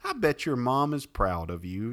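high, sugary praise; sweet flatterer. Acted. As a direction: lay the sweetness on thick. Flatterer keeps heaping praise.

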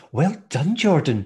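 mock classroom congratulations; praising teacher. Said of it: "the teacher went".

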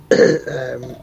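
coughing after choking on a drink. Real, not acted. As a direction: clear the throat after choking. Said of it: "excuse me, I'm just choking".

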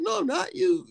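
high, stammered mock protest; defensive denial. Denying to her that he'd laugh, defensive.

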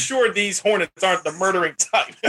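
light high-pitched take on a comic actor; a hint of Tracy Morgan, deadpan; Tracy Morgan impression. Retelling a funny ad to a cohost, light Tracy Morgan voice. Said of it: "Tracy Morgan".

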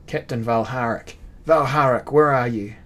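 calling his captain loudly from above; a loud call down the trapdoor to find him. A narrator's reading.

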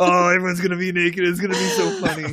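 fast, gleeful giggly rush; mock childish delight; Mister Holmes gleeful about naked guests; giddy glee. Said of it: "He's like".

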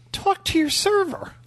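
high, curt brush-off, mimicking the manager; high mocking voice of a rude manager; dismissive manager. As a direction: toss it off like a snooty manager.

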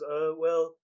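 unsure, halting with long pauses; hesitant. Acted. Fish seller quoting a customer a price, hesitant.

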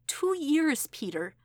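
pained outburst. Acted. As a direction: it bursts out of her. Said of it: "Her mouth was trembling".

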